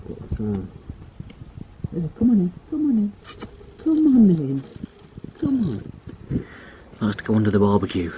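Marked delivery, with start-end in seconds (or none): 1.9-6.4 high sing-song call to the cat; high coaxing pet call. Real, not acted. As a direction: coax the cat inside, high and bright.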